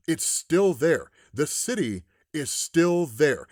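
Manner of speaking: slow, emphatic disbelief; deliberate retold astonishment; stunned realization. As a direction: let each word land slowly. Acting Bucky's stunned realization.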